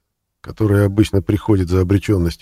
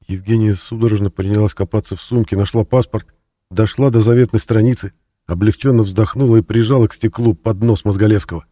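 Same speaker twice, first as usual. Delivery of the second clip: usual speaking voice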